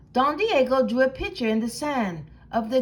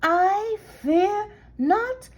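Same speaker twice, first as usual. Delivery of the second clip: meek soft mew; 6 semitones higher than usual. Acted. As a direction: quaver it out like a tiny scared pup. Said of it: "in a mew, mew, soft voice".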